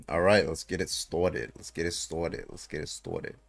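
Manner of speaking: lightly put-on New Jersey accent, fading to a whisper; a half-hearted New Jersey accent that trails off. Shown as a demonstration. Streamer hypes up his stream in a mild New Jersey accent. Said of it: "that's my best New Jersey accent".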